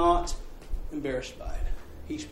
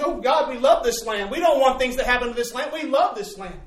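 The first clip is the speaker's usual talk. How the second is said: family crying out; 4 semitones higher than usual. Retold or imitated. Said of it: "they were saying".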